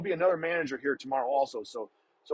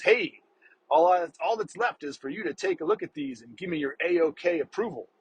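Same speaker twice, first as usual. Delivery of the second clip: a lightly put-on goofy, hip clerk voice, starting higher; goofy cool-guy voice; 3 semitones higher than usual. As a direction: play a kid trying to sound cool and hip. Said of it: "funky little tone of voice accent thing, he was trying to be cool and hip".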